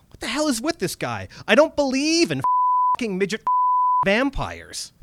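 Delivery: put-on a shocked young man scoffing to himself; Dennis in disbelief. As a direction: Dennis refusing to believe his eyes. Dennis's inner thought.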